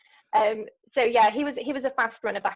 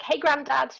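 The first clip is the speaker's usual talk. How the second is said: mild mock shout, pitched up; imitated shout; 5 semitones higher, 4 dB louder, slower than usual. Sister imitating brother hailing an older runner, mild mock shout. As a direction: call out to a passer-by, half-hearted. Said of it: "he's sort of shouting at people".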